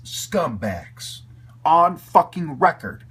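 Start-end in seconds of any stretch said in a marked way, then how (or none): 1.6-3.1 angry shout. Real, not acted. Ranting at scumbags.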